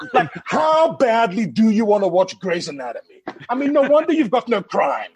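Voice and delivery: loud, rising comic rant; mock outrage. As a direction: build to a high, loud punchline. Comic retort builds to a rant.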